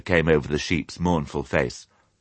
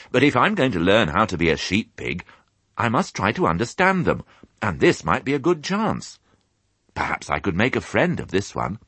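lightly voiced little pig, a bit higher; thoughtful young piglet; 5 semitones higher than usual. Piglet planning to befriend the sheep, lightly hopeful. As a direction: think aloud as a hopeful piglet.

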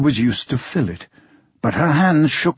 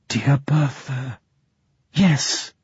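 whisper; 4 dB quieter, slower than usual. A narrator's reading. May answering softly.

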